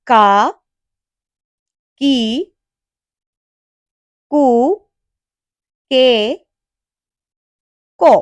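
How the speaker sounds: ക, കി, കു, കെ, കോ said slowly one syllable at a time; teacher reading kana aloud; reading the ka row. Shown as a demonstration. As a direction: drill the ka row with pauses. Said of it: "പിന്നെ ക series ആണ്".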